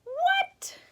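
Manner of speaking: high whispered what; a squeaked, breathless what; mock surprise. Teacher surprised the dog is hung up, a high whispered what.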